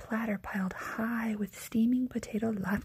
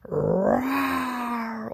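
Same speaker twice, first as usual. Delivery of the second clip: a big hammed-up bear roar; 4 semitones higher, 4 dB louder than usual. Old Bear roars at Baba Braina, bear roar. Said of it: "Old Bear roared".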